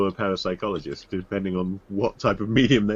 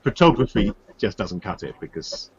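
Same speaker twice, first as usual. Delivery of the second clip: underwater; 4 dB louder than usual. Real, not acted. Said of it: "you sound like you're underwater".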